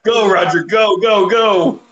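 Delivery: high, rising getaway urging; mock urgent cheering. Host playing along with Roger's getaway, mock urgent cheering. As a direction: egg the getaway driver on, pitch climbing.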